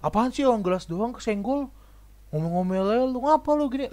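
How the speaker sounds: mock stubborn retort. Defensive clumsy person arguing with the owner, mock annoyed and high. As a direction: act the defensive guy arguing. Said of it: "Tapi orang malah kayak".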